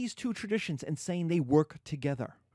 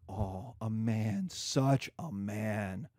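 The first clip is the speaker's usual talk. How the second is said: lower, slow, leering nurse; mock bawdy nurse; 5 semitones lower, slower than usual. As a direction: linger suggestively on the man. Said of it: "the nurse is like".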